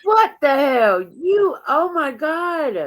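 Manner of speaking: high, loud shocked disbelief; real stunned outburst; shocked outcry. Real, not acted. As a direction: gasp it out, stunned by what she hears. Reacting in shock to the clip.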